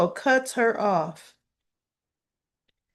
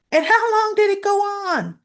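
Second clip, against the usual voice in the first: high, louder demand, pressing for an answer; 11 semitones higher, 4 dB louder than usual. Retold or imitated. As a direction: push her hard: when. Willow presses Nina.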